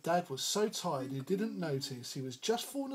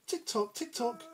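ticking clock; 6 semitones higher, 3 dB quieter than usual. Acted. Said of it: "went the living room clock".

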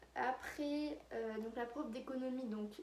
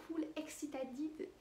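slow, drawn-out English-accented excited; 4 semitones higher, much slower than usual. Real, not acted. Schoolgirl telling viewers how wild the class got, in slow English accent. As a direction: stretch the English word with a self-conscious English accent. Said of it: "Désolée pour mon accent pourri".

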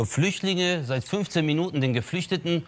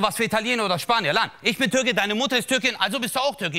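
indignant father; 6 semitones higher than usual. Retold or imitated. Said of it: "Der so".

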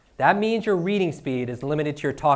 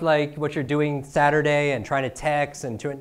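slow demo. Shown as a demonstration. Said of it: "when I started to speak slow".

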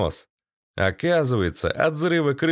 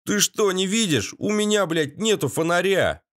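high indignant shout; angry yell; 7 semitones higher than usual. A narrator's reading. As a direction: complain furiously in the dark. Valera angrily explains.

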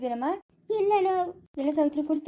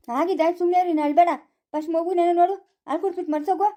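loud scolding; 3 semitones higher, 4 dB louder than usual. Acted. Heated quarrel, telling wife to stop.

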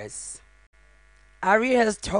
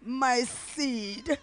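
building from louder speech to a higher sobbing cry; crying out in grief; 6 semitones higher, 7 dB louder, much slower than usual. Real, not acted. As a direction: let it break into a grieving cry. Mother's final goodbye at son's funeral.

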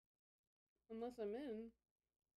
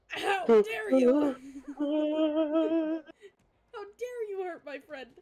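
high, loud, laughing mock fury; shaking with anger; 6 semitones higher, 10 dB louder, much slower than usual. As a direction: shriek it in comic outrage.

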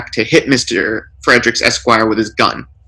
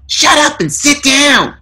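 burglar yell. A narrator's reading. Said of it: "The burglar yells".

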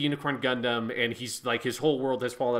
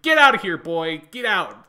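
higher, louder mock yell; shouted dismissal; 4 semitones higher, 9 dB louder than usual. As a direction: bark her out of the room, hammed up. Acted shove-off quote.

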